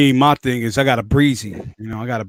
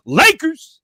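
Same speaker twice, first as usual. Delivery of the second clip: cheering shout; 13 semitones higher, 4 dB louder than usual. Real, not acted. Cheering his team at sign-off.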